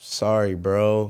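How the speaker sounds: imitated, put-on sad voice. Speaker retells a friend's call where he heard only an apology, imitating a sad voice. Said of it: "all I hear was like this sad voice".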